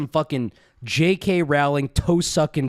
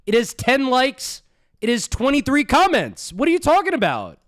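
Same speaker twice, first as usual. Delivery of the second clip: incredulous rant; 4 semitones higher than usual. Real, not acted. Streamer mocks the ranter's tiny channel, climbing incredulous rant.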